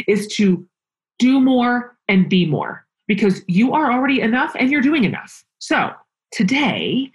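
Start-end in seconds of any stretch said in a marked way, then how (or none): 5.6-7.1 whisper. Real, not acted. Whispered podcast intro aside.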